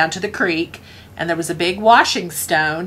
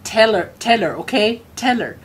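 dad pleading by phone; 3 semitones higher than usual. Retold or imitated. Dad begging Aunt Tracy to pass a message, pleading. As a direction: plead insistently, in short repeated bursts. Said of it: "I heard my dad on, on the phone".

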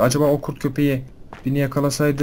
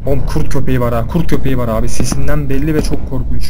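terrified yelling; 2 semitones higher, 10 dB louder than usual. Real, not acted. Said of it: "çok korktum lan sesinden".

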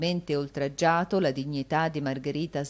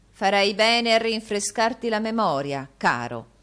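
minaccia velata, più forte; minaccioso; 5 semitones higher, 6 dB louder than usual. Acted. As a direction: caro detto scuro e cupo. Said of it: "con uno sguardo minaccioso". (Rodolfo minaccia Newman con tono cupo)

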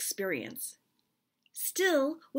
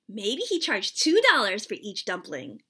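joking; 5 dB louder than usual. Acted. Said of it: "I joked".

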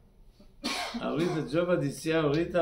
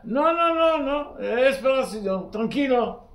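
mock angry; 5 semitones higher than usual. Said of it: "La persona empieza a enojar".

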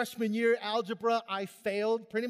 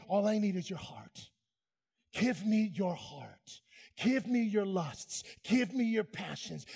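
tender plea. Acted. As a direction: plead gently for their heart. Voicing God tenderly.

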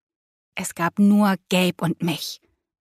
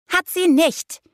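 high, emphatic call through the door; pitched well up, insistent; 9 semitones higher, slower than usual. A narrator's reading. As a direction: call out the denial. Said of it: "rief Lea".

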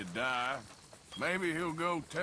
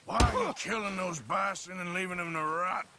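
raised, high demand; angry interrogation; 4 semitones higher, 4 dB louder than usual. Acted. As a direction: demand an answer from a captive. Interrogates poacher.

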